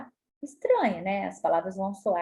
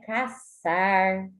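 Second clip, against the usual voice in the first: ordinary talk, nothing marked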